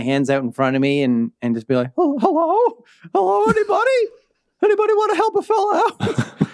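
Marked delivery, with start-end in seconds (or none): 2.0-6.5 high squeaky doll calling out. Acted. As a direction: call out as a small lost doll.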